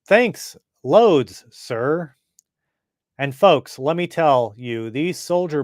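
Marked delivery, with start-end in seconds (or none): 0.1-2.1 excited. Acted. Billy thanks officer eagerly.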